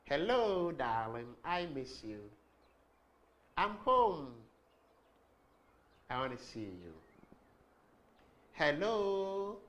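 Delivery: sing-song loving greeting to a partner; musical sweet voice. Shown as a demonstration. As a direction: lilt it like calling your darling. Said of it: "Where is the music in your voice?".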